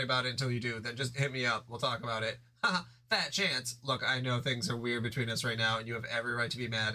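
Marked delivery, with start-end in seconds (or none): 3.1-3.8 Jade voice. Acted. Jade scoffs.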